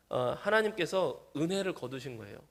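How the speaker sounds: ordinary talk, nothing marked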